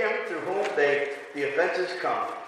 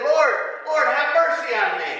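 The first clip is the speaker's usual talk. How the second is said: crying out higher and louder; loud desperate plea; 8 semitones higher than usual. Acted. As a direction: beg like an outcast leper. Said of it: "And they said".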